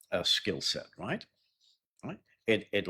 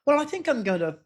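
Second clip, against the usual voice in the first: hesitant reply; 7 dB louder, faster than usual. Acted. Acted hesitant answer.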